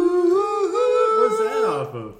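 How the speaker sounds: way up high and slow, cartoonish; squeaky high voice. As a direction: squeak it out slowly. Sudden high silly voice.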